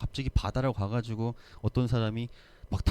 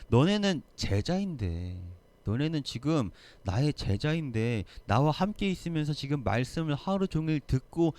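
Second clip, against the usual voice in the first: regretful; 3 semitones higher than usual. Retold or imitated. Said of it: "안타까워요".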